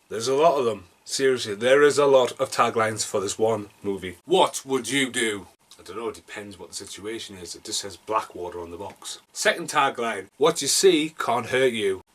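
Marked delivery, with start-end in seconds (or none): 4.2-5.5 slow, deliberate tagline reading; a touch of movie-trailer drama. Acted. Reads film tagline in movie-trailer delivery. 10.4-12.0 slow, deliberate tagline delivery; trailer tagline. Acted. Reads second tagline dramatically.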